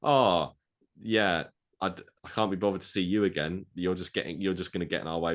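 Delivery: mock dismissive teammate; dismissive brush-off. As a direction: wave them off like they're a nuisance. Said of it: "a good joke about him being like".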